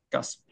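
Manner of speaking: 가습 with 가 stressed, 습 dropping; 가습 stepping down after the stressed 가; stress on first syllable. Shown as a demonstration. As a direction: hit 가 and let 습 fall in 가습. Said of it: "이렇게 돼야 되겠죠".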